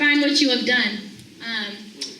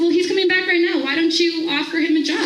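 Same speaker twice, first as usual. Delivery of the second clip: higher, daring dare with a laugh; mock-daring the angry man through a laugh; laughing challenge; 5 semitones higher than usual. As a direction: throw the challenge back, laughing.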